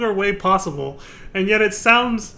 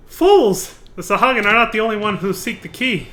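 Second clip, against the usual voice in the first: villain shout; 2 semitones higher, 5 dB louder than usual. Acted. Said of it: "reading a villain line".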